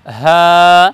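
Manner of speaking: হ্যাঁ breathed from the throat; throaty drawn-out হ্যাঁ. Shown as a demonstration. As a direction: model হ্যাঁ from the start of the throat. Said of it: "হলকের শুরু থেকে উচ্চারণ করব".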